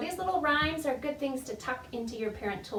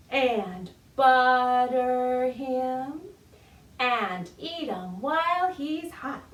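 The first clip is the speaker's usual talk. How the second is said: spoken nursery rhyme; 4 dB louder, much slower than usual. Shown as a demonstration. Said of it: "Let's do that together again".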